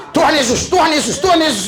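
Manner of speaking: just say it straight and sure; simple prayer. Shown as a demonstration. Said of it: "Itu aja udah".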